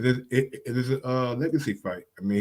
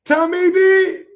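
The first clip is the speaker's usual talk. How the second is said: a very high, loud, slow hype call; stretched-out high shout of the name; excited shout; 8 dB louder, slower than usual. Real, not acted. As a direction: yell his name out like a cheer.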